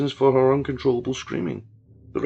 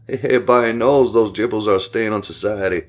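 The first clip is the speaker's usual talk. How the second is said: lower, cold and callous; lightly voiced callous villain; 4 semitones lower, 5 dB louder than usual. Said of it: "a cold, callous laugh".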